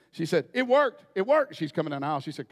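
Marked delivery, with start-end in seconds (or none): 0.5-1.6 higher, louder joyful repeat; a woman thrilled her ear is healed; excited. Retold or imitated. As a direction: burst out with glee. Woman's joy retold.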